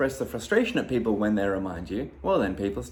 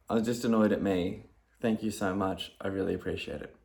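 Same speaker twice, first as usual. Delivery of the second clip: calm thanks; 3 semitones lower than usual. Retold or imitated. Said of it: "Oh, hang on. Excuse me".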